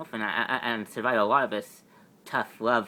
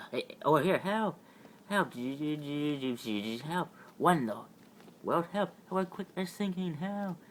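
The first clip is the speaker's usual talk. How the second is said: calling out; 5 semitones higher, slower than usual. Acted. Calling for help for sinking friends.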